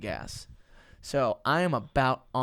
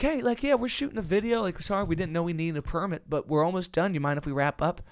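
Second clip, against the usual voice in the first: higher-pitched, placating plea; sheepish retold apology; 4 semitones higher than usual. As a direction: imitate talking nicely to security. Retelling his apology to security.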